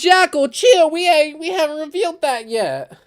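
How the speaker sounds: high, loud real alarm; urgent interruption. Real, not acted. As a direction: jump in fast to stop a spoiler. Urgently stops a spoiler slipping out.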